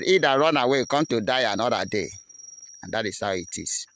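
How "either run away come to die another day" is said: loud, higher taunt, settling by the end; defiant reply. Acted. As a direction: hurl the challenge back, then ease off. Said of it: "we are here responding to them".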